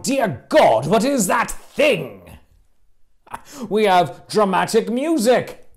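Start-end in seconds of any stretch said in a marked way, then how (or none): 0.0-2.2 mock horrified outcry; hammed-up alarmed cry. Shown as a demonstration. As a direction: play a startled crowd member. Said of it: "People cry out".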